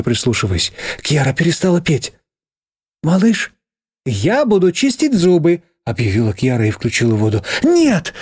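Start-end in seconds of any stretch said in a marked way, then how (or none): 3.0-5.6 put-on high, slow child announcing; sing-song small girl declaring; little girl voice. A little girl behind the door announces, high and slow. 7.6-8.1 high sharp shout of panic; scream. Acted. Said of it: "закричала я".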